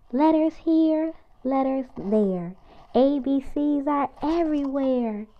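lively picture-book read-aloud; reading to children. Acted. Reading a picture book aloud to kids, lively and bouncy. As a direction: read it out brightly for little kids.

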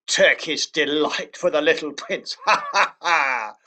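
slow mocking dwarf with laugh; jeering dwarf. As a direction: sneer it, then cackle. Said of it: "He grinned in a repulsive way".

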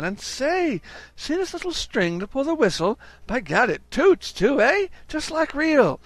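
delighted Brown. Acted. Brown to Jones over the toy train, boyishly excited. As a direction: gush over the toy whistle.

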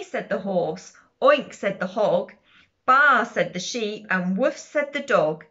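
lively, measured picture-book narration; sing-song storybook read-aloud; reading to children. A narrator's reading. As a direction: read it out clearly for little listeners, bouncing on animal noises.

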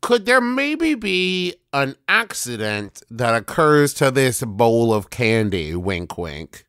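slow, drawn-out mock-innocent suggestion; playful conspiratorial insinuation; sly hinting. Sly hint at staged accident.

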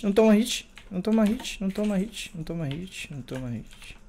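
repeated plea fading away; fading repetition. Real, not acted. Chanting to self while dodging hits.

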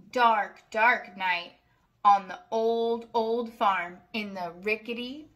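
sing-song rhyming read-aloud; reading to children. A narrator's reading. Reading a rhyming farm book to children, sing-song. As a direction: lilt each rhyme for little listeners. Story narration, soft ending.

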